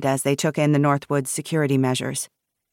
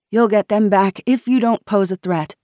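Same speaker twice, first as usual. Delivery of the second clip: higher, louder, nervous assurance; wavering voice; 6 semitones higher, 5 dB louder than usual. A narrator's reading. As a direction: answer nervously with an unsteady voice. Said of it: "Fiona's voice wavered".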